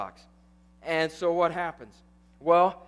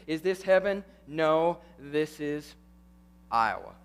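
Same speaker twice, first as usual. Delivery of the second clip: Kevin Costner movie line; 4 semitones lower than usual. Retold or imitated. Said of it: "he ends it with this".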